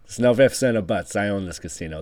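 a hint of a tough casino boss; Robert De Niro. Boss laying down the law to Cassie, a hint of a gangster. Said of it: "This is the Robert De Niro".

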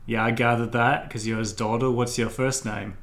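brash dock worker hollering at the rich; rough fisherman. Acted. Fisherman character.

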